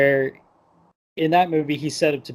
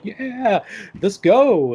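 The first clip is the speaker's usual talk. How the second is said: high, louder hyped-up cheer; mock excitement; 9 semitones higher, 5 dB louder, much slower than usual. Jasmine cheering on her handmaiden, excited. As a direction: imitate an eager "let's go".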